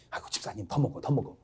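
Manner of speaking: very soft, low coaxing; coaxing host. Acted. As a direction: murmur it like a host pressing food on someone.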